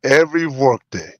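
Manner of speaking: slow lightly voiced Arnold Schwarzenegger; Arnold impression. Host reads the breakfast post, a mild Arnold voice. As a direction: draw out the fried eggs like Arnold. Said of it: "we need an Arnold guy".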